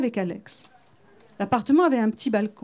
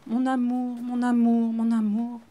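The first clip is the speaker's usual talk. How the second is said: tender murmur; slower than usual. A narrator's reading. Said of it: "Ma voix s'est mise à trembler".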